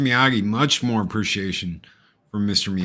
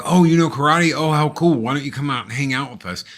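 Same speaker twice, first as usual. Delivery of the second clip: put-on friendly kid; 4 semitones higher, faster than usual. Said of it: "was like".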